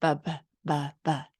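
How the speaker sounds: put-on child saying "Ba, ba, ba" for bye-bye; child's "ba ba". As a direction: babble it like a toddler. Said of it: "They say".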